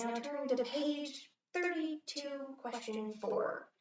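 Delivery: slow, measured classroom instruction; brisk teacher. Acted. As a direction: read out the page, unbothered.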